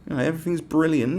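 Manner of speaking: high, sing-song false cheer; mock cheery denial. Mocking Brits pretending all is fine, high fake cheer. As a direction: gush it with fake brightness. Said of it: "we just go".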